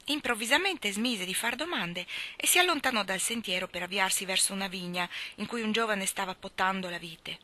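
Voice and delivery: ordinary delivery, nothing marked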